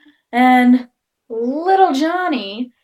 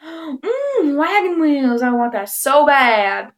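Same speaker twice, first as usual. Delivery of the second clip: mock craving; 3 semitones higher, much slower than usual. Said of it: "what you would call".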